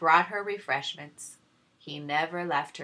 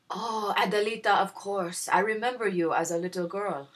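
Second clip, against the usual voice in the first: gasped; 3 semitones higher, 5 dB louder than usual. Acted. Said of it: "Javier gasped".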